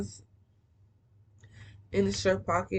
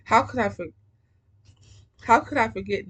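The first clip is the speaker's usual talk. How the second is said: eager reply; 3 semitones higher, 6 dB louder than usual. Retold or imitated. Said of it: "he doesn't stutter at all".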